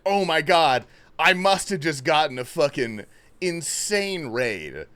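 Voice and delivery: loud, amazed reenactment; retold excitement. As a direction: relive the thrill of a huge surprise. Acts out own reaction to raid.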